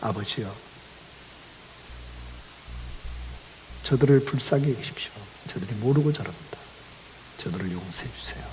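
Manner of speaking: low, very soft pleading prayer, sinking toward a whisper; hushed prayer. Retold or imitated. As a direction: plead gently for them, barely voiced, with long pauses. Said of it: "이렇게 기도하고 계시잖아요". (낮고 조용하게 속삭이듯 간구하는 기도)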